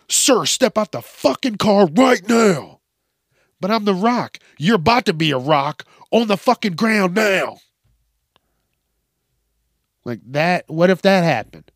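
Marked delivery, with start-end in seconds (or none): 0.1-7.6 mock angry cop. Acting out a cop and The Rock.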